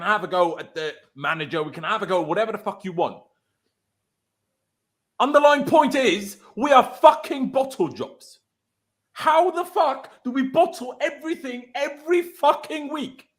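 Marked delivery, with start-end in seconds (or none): 5.2-13.3 slow, louder, seething; slow furious words, each one hit; angry rant. Real, not acted. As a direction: spit it out, fed up with the team. Furious fan rant on team.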